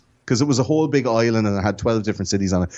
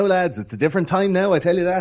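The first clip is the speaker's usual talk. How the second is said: put-on old man voice; 8 semitones higher than usual. Old-timer voice, different time now.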